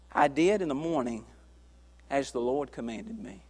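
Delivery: preacher hushes for a wife's death; hushed solemn. Acted. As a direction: drop the voice for the death.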